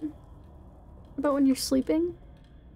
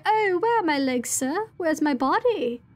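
crying out; 2 semitones higher than usual. Acted. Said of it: "and cry".

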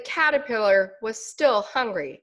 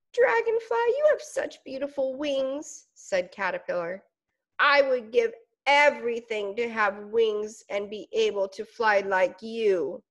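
a tiny bug gazing up in awe; admiring little caterpillar. Acted.

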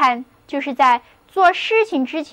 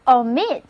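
"omit" stressed on the second syllable. Shown as a demonstration. Teacher models "omit" for learners to repeat, stress on second syllable. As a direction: put the weight on the end of "omit". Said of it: "重音还是放在第二音节上".

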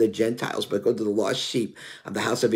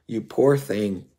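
pitying. Retold or imitated. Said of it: "I expected".

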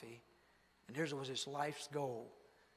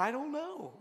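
much higher, lost little voice; imitating bewildered man; 10 semitones higher, 5 dB louder than usual. Preacher mimicking Chili Bean after the blast, high and lost. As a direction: mimic a soot-covered man who can't explain it. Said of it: "And he said".

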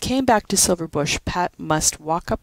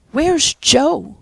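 high alarmed cry, loud; suddenly frightened, calling out; cried out; 10 semitones higher, 6 dB louder than usual. A narrator's reading. Pat, finding Joe missing, cries out in alarm. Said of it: "she cried".

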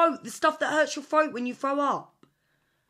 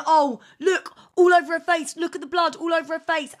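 imitating friend; 3 semitones higher, 4 dB louder than usual. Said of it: "you're there, right, going".

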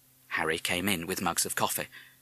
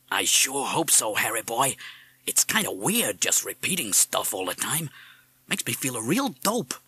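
put-on American accent; 2 semitones higher than usual. A narrator's reading. Parrot confiding in Harry in the passage, American accent. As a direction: speak in a slangy American accent. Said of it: "with a distinct American accent".

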